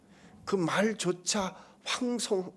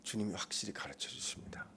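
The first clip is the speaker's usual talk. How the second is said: whisper; 5 semitones lower, 13 dB quieter than usual. Real, not acted. Preacher drops to a whisper.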